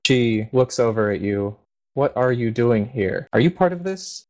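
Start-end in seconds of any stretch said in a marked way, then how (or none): 1.9-4.2 suspicious paladin. Acted. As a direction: challenge the intruder. GM voices paladin Avery.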